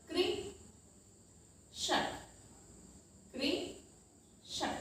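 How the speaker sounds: कृषक stretched slowly, each sound held; drawn-out example word. Shown as a demonstration. Teacher to children, stretching the example word slowly. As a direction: spell out कृषक slowly, syllable by syllable. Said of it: "जैसे".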